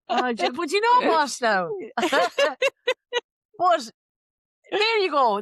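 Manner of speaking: high and loud through laughter; laughing. Real, not acted. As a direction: keep laughing as you talk. Fit of laughter.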